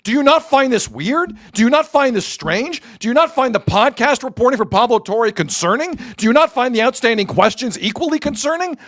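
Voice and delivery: high, slow, exasperated rant; heated rant, pitch way up; angry rant. Real, not acted. Rant at chat about Kawhi.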